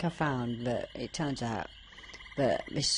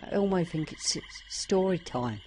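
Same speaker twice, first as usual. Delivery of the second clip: Elmo; 9 semitones higher, 5 dB louder than usual. Acted. Puppet asking for story time, in a high Muppet voice. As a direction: do a high, childlike Muppet impression. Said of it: "It is, it's Elmo".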